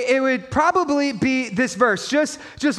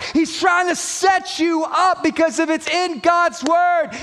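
insistent, driving sermon delivery, slightly raised; impassioned preaching; 3 semitones higher than usual. Real, not acted. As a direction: build emphatic, repeated declarations to the congregation. Preaching at full force.

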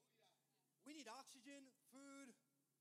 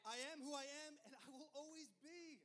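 booming voice of God; 4 semitones higher, 5 dB louder than usual. Acted. God's voice quoted in sermon.

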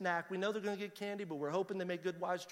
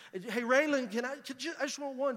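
higher-pitched, halting plea; pleading; 5 semitones higher than usual. Acted. Dad begging daughter for a gummy worm, pleading. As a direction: wheedle a child for just one.

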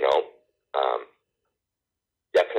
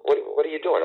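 retold astonishment; 12 semitones higher than usual. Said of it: "I'm like".

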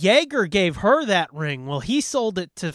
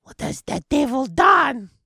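dramatic movie voice; 7 semitones higher, 3 dB louder than usual. Retold or imitated. Voicing a movie line.

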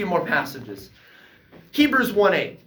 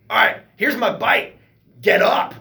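loud, commanding, high and proud; mock commanding Jesus; 6 semitones higher, 6 dB louder than usual. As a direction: declare it like a triumphant challenge. Jesus voiced proving authority.

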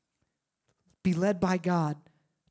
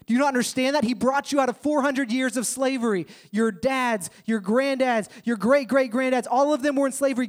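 rallying exhortation; 4 semitones higher than usual. Retold or imitated. Moses rallying Israelites.

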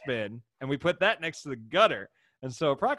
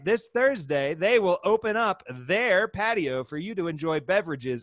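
sponsor plug; 4 semitones higher, 4 dB louder than usual. Acted. Reads out the brewery sponsor.

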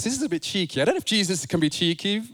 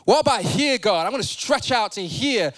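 eager question; 3 semitones higher, 3 dB louder than usual. Acted. Preacher acting out talking to God.

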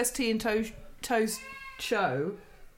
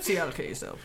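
mopey; 6 semitones lower, 6 dB quieter than usual. Retold or imitated. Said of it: "moping around going".

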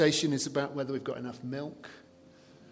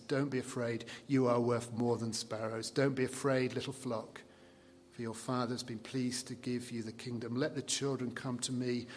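soft, reassuring encouragement; gentle Jesus; 3 semitones lower, 4 dB quieter than usual. Retold or imitated. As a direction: comfort the little flock tenderly. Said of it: "a sampling of how it feels".

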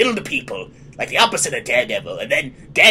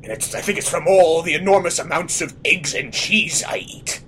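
Fisk impression; 3 semitones lower, 4 dB quieter than usual. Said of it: "That's why I sound like this".

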